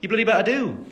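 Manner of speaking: high, loud Brummie accent; thick Brummie lilt, pitched high; Birmingham accent. Shown as a demonstration. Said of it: "sound like I'm from Birmingham, really. But when my mom's here".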